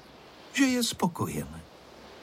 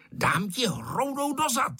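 put-on high, strained childish threat; angry yell; 11 semitones higher than usual. A narrator's reading. Angry Ferda yelling a threat at Honzík. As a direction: shout it at him in a temper. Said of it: "křičel Ferda".

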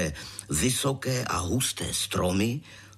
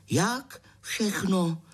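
high, slow little peep of a frightened mother; timid peep; 9 semitones higher, much slower than usual. A narrator's reading. Mother answering the robbers, slow high peep. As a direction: squeak it out timidly. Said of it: "Maminka jen pípla".

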